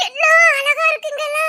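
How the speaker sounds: bubbling over with wonder; thrilled. Acted. Thrilled by the scenery.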